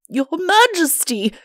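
high, loud wail of dismay; overwrought, lamenting Chancellor; distraught. Acted. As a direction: wail helplessly, pitch soaring. Shocked Chancellor wails at disfigured king.

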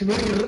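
"مر" with the ر rolled on and on; wrong repeated R. Shown as a demonstration. Teacher warning students against a repeated R, "مر" over-trilled. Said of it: "ما تخليش الراء تور منك".

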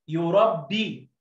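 يربي، حبي، محبينا drawn out, very slow; slow teacher read of محبينا; slow blending. Shown as a demonstration. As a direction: stretch each word for the class. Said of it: "أبي".

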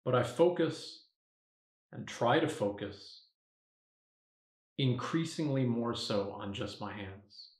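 softened meditation voice with long pauses; guided meditation. Acted. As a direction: talk yourself gently into focus. Guides meditation by own example.

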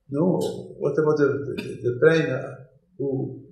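ordinary delivery

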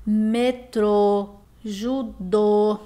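metrô, judô, each ending on a stressed closed ô; stressed final syllable. Shown as a demonstration. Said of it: "nós temos um som aí fechado". (metrô, judô com ô final tônico e fechado)

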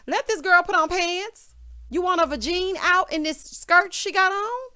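high, loud, fast exasperated rant; fired-up commentator roasting the cast; heated rant. Real, not acted. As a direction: call them out in disbelief. Ranting at the cast.

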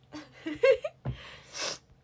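high, loud giggle; embarrassed little laugh. Real, not acted. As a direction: giggle after owning up to a habit. Amused at own snacking habit.

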